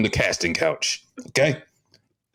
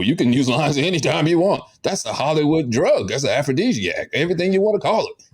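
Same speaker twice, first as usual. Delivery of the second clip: higher, faster hype; hyped up; 6 semitones higher than usual. Acted. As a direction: sell it like a sleazy agent. Agent hyping Hollywood drug.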